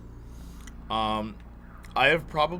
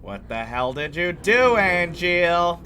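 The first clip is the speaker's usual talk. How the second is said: slow, rising demand, building louder on Angeal; disbelieving question; 3 semitones higher, 4 dB louder, slower than usual. Acted. Streamer voicing a game line to chat, slow and incredulous. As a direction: draw it out, climbing in disbelief.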